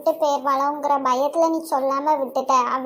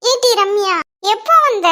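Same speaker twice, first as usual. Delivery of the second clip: surprised greeting; 4 semitones higher than usual. Acted. Mother surprised daughter is back.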